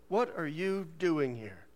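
drawn-out, every word separated; slow disapproving usher. Retold or imitated. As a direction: quote the usher slowly and pointedly. Usher's line repeated for effect.

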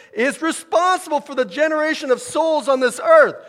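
high, loud imitation of an urgent preacher; imitated yelled proclamation; Keith Green proclaiming. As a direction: proclaim it at a near yell. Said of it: "say it like proclaiming it".

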